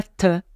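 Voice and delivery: "te" with a crisp T, a wrong substitute for TH; isolated "te" with a stopped T; T instead of TH. Shown as a demonstration. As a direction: demonstrate a French T on "te". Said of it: "c'est pas ça".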